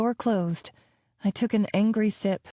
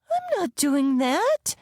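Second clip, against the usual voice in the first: put-on defiant child; 7 semitones higher, slower than usual. A narrator's reading. Child refusing work.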